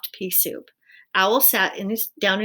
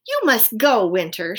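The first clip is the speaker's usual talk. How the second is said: shouting; 2 semitones higher, 8 dB louder than usual. A narrator's reading. Owl shouting Winter out of his house, loud. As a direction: order Winter out at full voice. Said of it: "shouted Owl".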